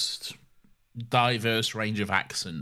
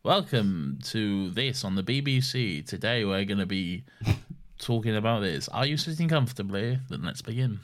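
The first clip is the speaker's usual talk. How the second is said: BBC presenter; 2 semitones lower than usual. Retold or imitated. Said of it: "a T V show".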